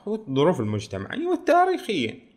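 high-pitched eager "والتاريخية"; mock eager agreement. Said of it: "فقال له". (موافقة متحمسة ساخرة بنبرة عالية على "والتاريخية")

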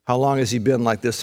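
low, softened compassionate question; tender. Acted. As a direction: ask gently, with compassion. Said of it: "I believe he said that tenderly".

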